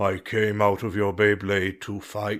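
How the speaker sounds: low, deep, reverent, respectful dragon voice. Speaker retelling a dragon coming out of a Beyblade, imitating a deep, respectful voice. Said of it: "like yelling at him".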